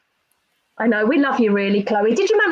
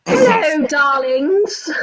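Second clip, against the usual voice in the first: someone else's voice; 3 semitones higher, much slower than usual. Acted. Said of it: "Who wants to read it in his voice?".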